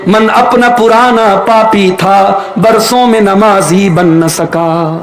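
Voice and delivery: a poet's measured delivery; slow verse recitation. Acted. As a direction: recite the couplet slowly, drawing it out. (آہستہ شعر خوانی)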